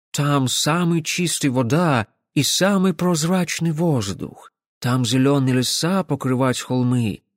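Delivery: чуть выше, с ломаным акцентом; восторженная иностранная барышня; голос иностранки. Acted. Мисс восхищается Альвионом. (иностранка восхищённо делится)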